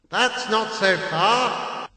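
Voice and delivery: cheerfully. A narrator's reading. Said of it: "my uncle said cheerfully".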